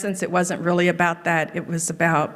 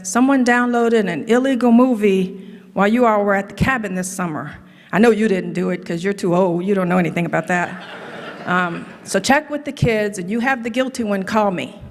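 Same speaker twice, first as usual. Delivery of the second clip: daddy-like angry; 2 semitones higher than usual. Retold or imitated. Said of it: "in his daddy-like, kinda angry voice".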